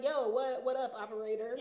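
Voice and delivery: relaxed, loose, laughing slang hello; breezy, unbothered phone greeting; casual street greeting. Shown as a demonstration. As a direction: talk to the operator like a friend. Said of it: "I kinda just wanna be like".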